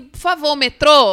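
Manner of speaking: loud tourist demand. Retold or imitated. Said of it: "falar assim".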